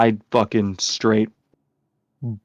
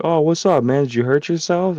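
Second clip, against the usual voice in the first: lightly acted fatherly concern, higher pitch; concerned dad; 6 semitones higher than usual. Dad seeing his son crying, mildly concerned. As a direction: imitate a dad checking on his kid.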